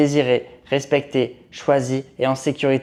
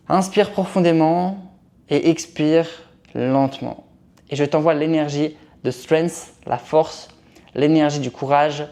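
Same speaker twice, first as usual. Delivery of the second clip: guided meditation. Acted. Leads breathing and energy sending.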